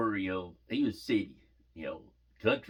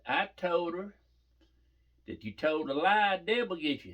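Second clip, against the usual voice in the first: higher-pitched, imitated kid insistence; adamant child; 7 semitones higher than usual. Daughter owns up to what she told her, mock adamant. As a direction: play a little girl standing her ground. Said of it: "she's adamant about it".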